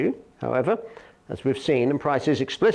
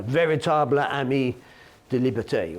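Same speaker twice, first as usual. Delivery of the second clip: French phrase in an English-speaker's accent; terrible French accent. Real, not acted. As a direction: attempt the French with a clumsy accent. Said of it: "in my terrible French accent".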